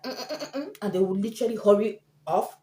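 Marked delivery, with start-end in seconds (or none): 0.0-0.8 nervous humming. Retold or imitated. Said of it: "they'll be like".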